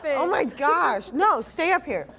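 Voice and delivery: high, loud laughing plea. Real, not acted. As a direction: laugh and beg them to stay. Telling friends to stay.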